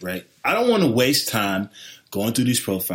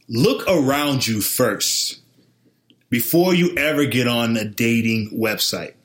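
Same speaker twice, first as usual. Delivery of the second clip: commercial voice; 4 semitones lower, slower than usual. Pretend. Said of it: "You sound like a commercial right now".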